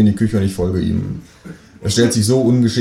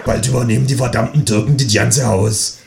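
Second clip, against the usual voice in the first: neighbour voice; 3 semitones higher than usual. Acted. Nachbarin hetzt.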